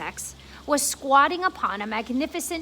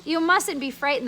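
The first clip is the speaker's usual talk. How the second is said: kindly; 3 semitones higher, 4 dB louder than usual. Acted. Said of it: "the ladybug said kindly".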